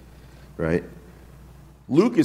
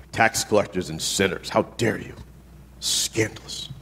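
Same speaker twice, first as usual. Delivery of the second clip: scandalized prude; 6 semitones lower, 6 dB quieter than usual. Retold or imitated. Voicing scandalized religious rulers.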